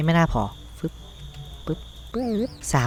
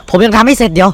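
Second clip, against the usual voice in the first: much higher and louder, panicked; alarmed outburst; 7 semitones higher, 11 dB louder than usual. Real, not acted. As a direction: cry out as night catches you unready. Caught off guard in game. (ร้องตกใจเสียงสูงดัง)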